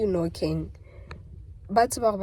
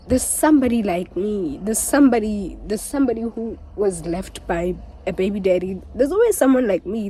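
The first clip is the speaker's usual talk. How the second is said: impassioned; 4 dB louder than usual. Real, not acted. Emotional appeal to viewers.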